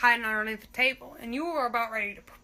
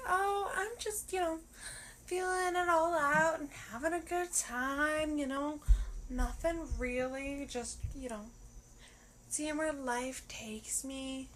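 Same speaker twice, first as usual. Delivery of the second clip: sweet innocent act; 2 semitones higher, 3 dB quieter than usual. Retold or imitated. You answering the date, hammed-up sweet innocence. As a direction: play coy and innocent. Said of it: "oh, I'm so sweet and innocent answer".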